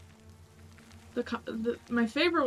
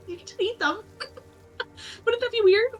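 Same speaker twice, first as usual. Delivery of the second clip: laughing while quoting; 10 semitones higher, 3 dB louder, faster than usual. Retold or imitated. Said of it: "she just has friends like".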